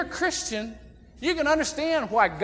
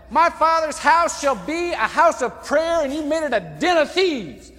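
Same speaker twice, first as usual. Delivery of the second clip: angry Jesus; 5 semitones higher, 6 dB louder than usual. Retold or imitated. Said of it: "He was mad".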